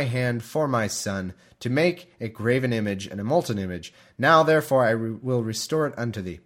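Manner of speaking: scripture reading. Acted. Podcaster starting the chapter in a measured reading voice. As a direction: read the passage out with care. Reads Judges aloud.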